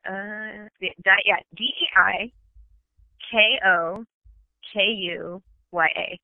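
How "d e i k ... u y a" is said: letters said one by one; spelling it out. Shown as a demonstration. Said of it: "and it is spelled".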